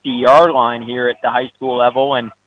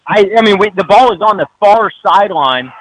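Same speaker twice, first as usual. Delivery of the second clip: excited call; 4 semitones higher than usual. Real, not acted.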